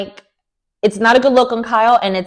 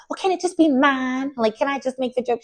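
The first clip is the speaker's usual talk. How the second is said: mock whiny Sutton; 6 semitones higher, 5 dB quieter than usual. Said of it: "Sutton basically was like".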